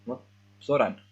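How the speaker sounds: put-on indignant boy correcting his name; annoyed insistence. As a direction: correct them sharply, fed up. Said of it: "Zoran is not happy with this".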